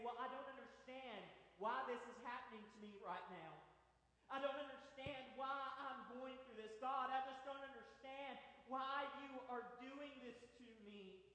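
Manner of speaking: mild pleading frustration; a touch of despairing complaint. Retold or imitated. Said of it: "we say".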